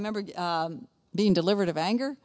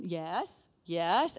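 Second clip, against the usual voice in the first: put-on restrained answer to a child; strained patience; 2 semitones lower than usual. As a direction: answer with patience starting to wear thin. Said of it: "sometimes I would do that".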